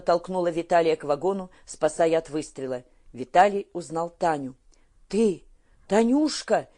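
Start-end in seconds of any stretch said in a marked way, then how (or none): 5.1-6.7 higher, louder astonished cry; surprised to recognise her; astonished to recognise Tanya in the dark; amazed exclamation. A narrator's reading. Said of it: "изумлённо воскликнул он".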